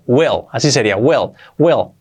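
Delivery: will said with an e sound, like wel; will clearly as wel, short and open; teacher's will. Shown as a demonstration. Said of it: "cuidado que se pronuncia will".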